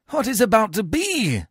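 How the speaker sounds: high-pitched theatrical dismay; alarmed cry. A narrator's reading. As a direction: exclaim at a riot breaking out. Menenius alarmed by the riot.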